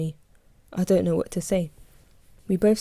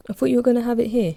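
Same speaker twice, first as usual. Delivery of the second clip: questioning; 6 semitones higher, 4 dB louder, faster than usual. A narrator's reading. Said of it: "she questions".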